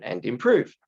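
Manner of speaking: hoarse, croaky voice from a sore throat. Real, not acted. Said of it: "I do apologize about my croaky voice".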